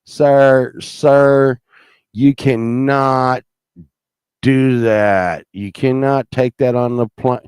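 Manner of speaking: loud, insistent airport guard; imitating a TSA agent yelling; mock official shouting. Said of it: "they're like".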